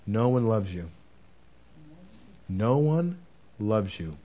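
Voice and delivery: soft, heavy mock voice. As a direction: let it sink in like a dark whisper in the ear. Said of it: "The voice said".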